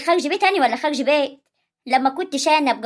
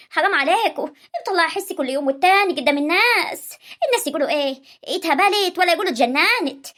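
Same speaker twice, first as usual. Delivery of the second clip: wailing mother; 3 semitones higher than usual. Acted. Mother wails about her daughter.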